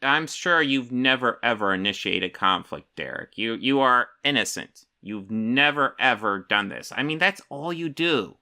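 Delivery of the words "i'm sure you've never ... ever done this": sarcastic. Real, not acted. Streamer sarcastically telling Derek he's never started conflict, mock-sincere. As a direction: pretend to believe his innocence, dripping irony.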